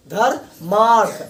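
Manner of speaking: धर्मार्थ drawn out slowly, each syllable clear; slow demo pronunciation. Shown as a demonstration. Teacher slowly sounding out धर्मार्थ for students. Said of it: "इसको उच्चारण करते हैं".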